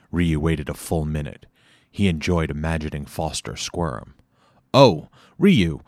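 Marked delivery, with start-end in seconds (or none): 4.7-5.8 higher, louder, fake-friendly chuckle; forced chuckle. A narrator's reading. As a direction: Foster forces a laugh at Ryu, higher and louder. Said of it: "forcing a chuckle".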